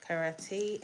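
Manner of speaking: "karate" said as ka-ra-TAY; alternative pronunciation. Shown as a demonstration. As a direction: give "karate" a "tay" ending. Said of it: "however you pronounce it".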